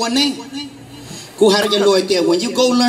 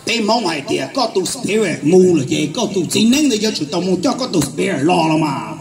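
lower, measured father explaining; father's voice; 5 semitones lower than usual. Retold or imitated. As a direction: speak as the father, lower and patient. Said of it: "My dad said".

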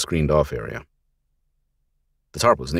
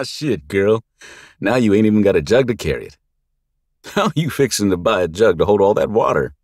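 louder, higher rough thug voice; howling taunt; 6 semitones higher, 7 dB louder than usual. Acted. Thug mocking the girl over her lost jug, loud jeering. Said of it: "he howled again".

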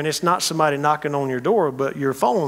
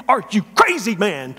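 exasperated outburst; 5 semitones higher than usual. Acted. Woken neighbour scolds late visitor.

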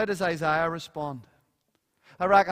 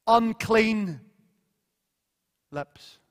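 louder, slowed cry of ruin; anguished lament; 3 semitones higher, 9 dB louder, slower than usual. Retold or imitated. Preacher voicing Isaiah's cry before God, loud and anguished. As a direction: proclaim it like a man undone. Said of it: "he says".

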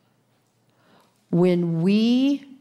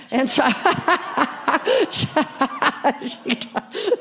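giggling through the words; laughing at her own story; real laughter breaking in; 8 semitones higher, much slower than usual. Real, not acted. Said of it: "laughs at own story".

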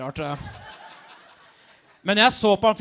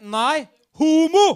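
loud, high, drawn-out shout; shouted football-chant style reply; yelled comeback; 6 semitones higher, 9 dB louder, much slower than usual. Retold or imitated. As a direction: holler the retort back, stretching it.

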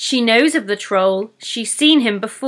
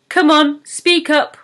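higher, louder impatient troll; 7 semitones higher, 5 dB louder than usual. Acted. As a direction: hurry her up, gruffly impatient. Troll pushes pixie.

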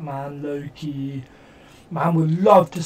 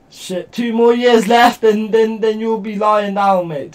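voicing the Israeli soldier; 4 semitones higher, 8 dB louder than usual. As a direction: play the gloating soldier's thoughts with a mocking sneer. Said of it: "That's what the Israeli guy's thinking".

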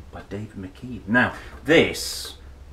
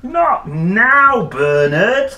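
much higher and louder brush-off; dismissive dad; 11 semitones higher, 13 dB louder, much slower than usual. A narrator's reading. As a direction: wave the boy away, busy and loud. Father brushes Bernard off.

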